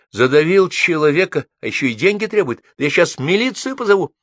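возмущённая тирада, высоко и громко; пригрози обидчику, заступаясь за близкого; возмущение. A narrator's reading. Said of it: "возмутилась Алла". (возмущённо, с напором)

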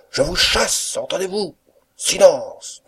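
high, loud, angry command; furious outburst. A narrator's reading. Master sacking his servants and silencing them, high angry shout. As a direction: lay down the law at a shout. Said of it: "capable d'exprimer sa colère".

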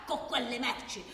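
heated rant. Acted. Worker ranting at colleague about the goods, heated. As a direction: rant with growing exasperation.

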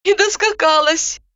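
high, sorrowful remark; mournful. A narrator's reading. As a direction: say it grieving, shaking your head. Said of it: "горестно качая головой".

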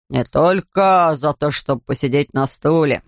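low, slow correcting attendant; gruff ticket man. Acted. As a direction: lean on только, low and slow.

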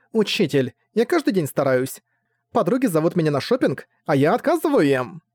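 hurt and sulky. Acted. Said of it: "обиженно промолвила".

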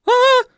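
very high, loud squeal; terrified squeal. Acted. Маменька визжит от ужаса — пронзительный визг. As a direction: let out a piercing scream. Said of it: "завизжала маменька".

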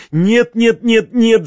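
high, loud repeated no; shouting no. A narrator's reading. Tatyana Ivanovna cuts off Nastya's refusal, shouting. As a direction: cry out no, no, no, waving her off. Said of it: "закричала она".

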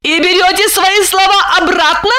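high brisk question; businesslike. A narrator's reading. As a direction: demand it matter-of-factly. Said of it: "деловито".

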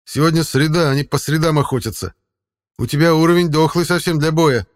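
high, loud cat voice; snooty bored cat. Acted. Cat speaks in story.

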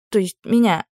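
ordinary delivery, nothing marked

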